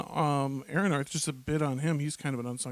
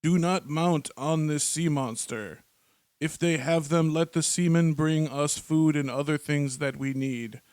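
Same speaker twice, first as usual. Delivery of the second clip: slow, solemn snowman chief; lightly voiced old snowman elder. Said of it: "How'd you like my snowman voice there?".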